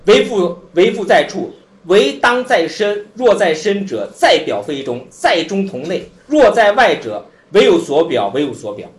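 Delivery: slow, measured sutra recitation; recited scripture. Acted. Teacher reciting the sutra to students, slow and measured. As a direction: intone the classical lines slowly, then let them fade.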